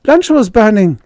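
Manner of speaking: panting. Acted. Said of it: "she panted".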